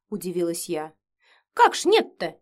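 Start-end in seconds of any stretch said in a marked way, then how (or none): 1.5-2.3 higher, louder amazed question; amazed "Как ж нет-то?"; astonished. A narrator's reading. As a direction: gasp in disbelief. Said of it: "изумлённо округлила глаза".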